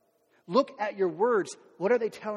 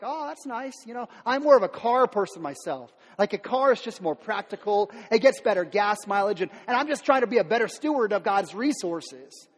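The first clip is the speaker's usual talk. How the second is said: mock passive-aggressive; 4 dB louder than usual. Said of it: "you're like".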